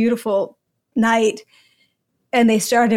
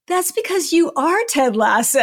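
laughing quote; 5 semitones higher than usual. Retold or imitated. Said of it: "he turns to me and he goes".

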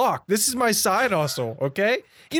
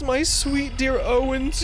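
melodramatic grief; 8 semitones higher, much slower than usual. Acted. Dramatic farewell to dying friend.

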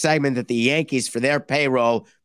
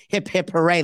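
sarcastic cheer; 4 semitones higher than usual. Pretend. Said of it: "like we're gonna have a parade".

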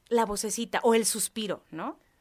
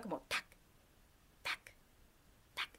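playful footstep taps; 5 semitones lower, 16 dB quieter than usual. Retold or imitated. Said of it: "empiezo a escuchar los pasitos, pero era como juguetones".

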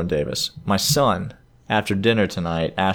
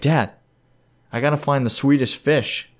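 put-on higher-pitched retelling of an insistent kid; kid's plea, pitched up; imitated pleading son; 5 semitones higher than usual. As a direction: lightly play a son pleading with dad. Retelling his young son's plea.

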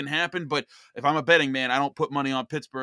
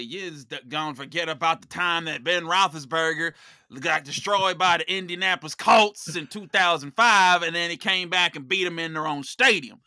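put-on Pittsburgh accent; 5 dB louder than usual. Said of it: "if I was a Yinzer, I would say".

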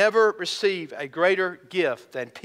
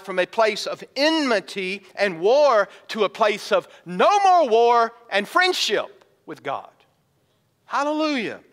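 louder, higher, slowing on more war; fervent preacher build; rising fervor; 4 semitones higher, 3 dB louder than usual. Real, not acted. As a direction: swell into the promise. Preaching climax.

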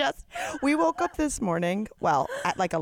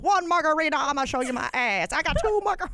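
tipsy boast; 4 semitones higher, faster than usual. Retold or imitated. Late-night friends boasting over margaritas, building to a shout. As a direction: brag it out like a tipsy party girl.

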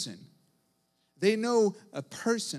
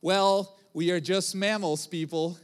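mocking show host; 4 dB louder than usual. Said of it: "he ended the story the, the saying".

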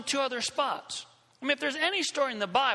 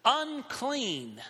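mock yell; 2 semitones higher than usual. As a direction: imitate a leper's warning call at half strength. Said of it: "they had to yell something".

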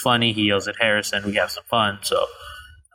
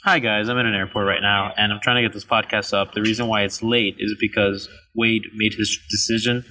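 busy airport noise behind voice; recorded amid ambient terminal chatter. Real, not acted. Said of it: "sorry for the ambient noise".

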